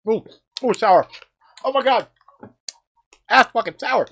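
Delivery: high, loud reaction to sour taste; sour shock. Real, not acted. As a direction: react to a mouth-puckering sour. Tasting very sour candy.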